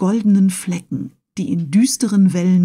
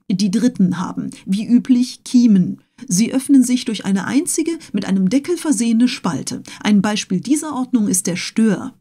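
pedantic Conseil; 3 semitones higher than usual. Acted. Conseil keeps classifying.

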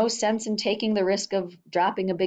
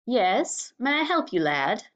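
hoarse husky doctor; 4 semitones higher than usual. A narrator's reading. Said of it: "his strange voice, hoarse and husky".

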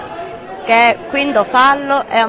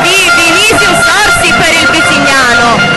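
higher, slowed goal announcement; excited goal call; 4 semitones higher, 3 dB louder than usual. Real, not acted. Goal call in live match commentary.

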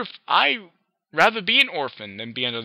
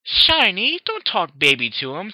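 high, louder huff; huffy filly; 8 semitones higher, 8 dB louder, slower than usual. Acted. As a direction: huff at her brother. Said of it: "Twilight huffed".

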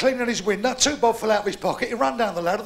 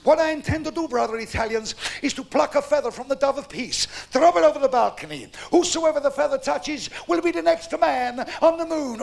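high-pitched grand papal address; roman orator; 5 semitones higher, 3 dB louder than usual. Acted. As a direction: proclaim it like a pope from a balcony. Pope continues the address.

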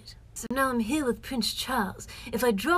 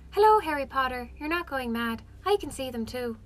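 dreamy light lilt; Luna Lovegood voice; 2 semitones higher than usual. Retold or imitated. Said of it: "you have Luna Lovegood".

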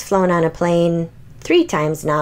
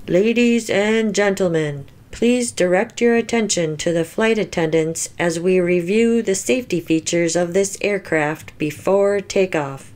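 steady captain's PA read; flight announcement. Acted. Pilot tells passengers about safety features, in an airline announcement voice.

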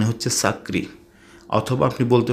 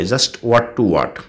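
slow emphasis; much slower than usual. Shown as a demonstration. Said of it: "teacher stresses phrase slowly".

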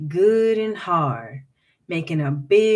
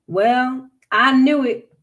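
raised, higher, indignant voice; angry outburst; 5 semitones higher, 5 dB louder than usual. A narrator's reading. Slave owner at the empty pond, angrily indignant. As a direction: burst out, sure you were tricked.

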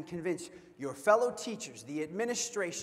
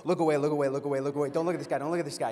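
mock panicked teen whisper-shout; 4 semitones lower, 6 dB louder, much faster than usual. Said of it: "are quickly like".

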